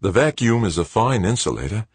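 a hint of an Australian accent. A narrator's reading. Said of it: "with just a hint of an Aussie accent".

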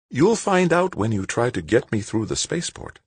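put-on a gentle elderly lady, unhurried; old woman voice.

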